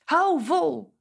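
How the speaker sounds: hoog uitgeroepen "Hou vol!", nadruk op hou; aanmoedigend roepen. Acted. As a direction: schreeuw "Hou vol!" als een supporter. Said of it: "Wij zouden naar ze willen roepen". (luid aanmoedigend "Hou vol!" naar de vrienden)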